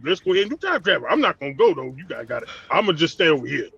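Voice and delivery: mock a tame, civilized giant; mild-mannered Hulk. Friend mocking the tea-drinking Hulk, lightly imitated mellow voice. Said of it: "he having tea and stuff. He got glasses on".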